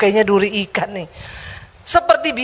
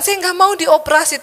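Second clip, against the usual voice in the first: ordinary talk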